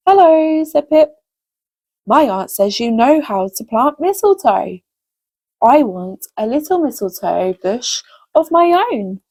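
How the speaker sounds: gentle storybook reading for little ones; lively storyteller voice for children. A narrator's reading. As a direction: read it like a bedtime story to kids.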